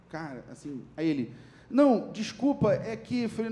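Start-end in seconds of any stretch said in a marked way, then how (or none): 1.7-3.5 high, louder, flustered apology; retold embarrassed backpedalling, pitched high. Orderly flustered, apologizing to patient.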